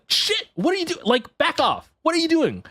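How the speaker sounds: high, panicked retold shout; high-pitched mock panic at pickpockets; startled alarm. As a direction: whirl round on the thief in a high squeal. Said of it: "I'm like".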